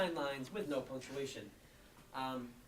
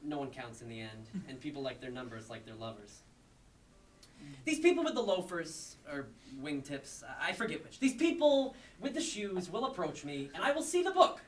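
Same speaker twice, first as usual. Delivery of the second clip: performed poem; 3 semitones higher than usual. Acted. Poet reading ninety-nine unpunctuated lines, emphatically declaimed. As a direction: punch the phrases out, easing off for asides.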